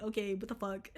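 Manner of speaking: breaks into a laugh mid-line; amused disbelief at yourself. Real, not acted. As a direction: chuckle through the words. Laughs at own dark thought.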